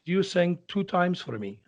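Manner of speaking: put-on slow Italian-accented English; lightly put-on Italian accent; famous tenor impression. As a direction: imitate an Italian maestro's measured remark. Mimicking a famous tenor in dressing room.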